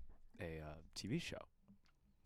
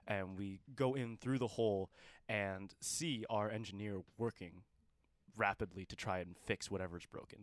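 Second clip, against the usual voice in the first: game master narration; 4 dB louder, slower than usual. Acted. Game master describes the scene.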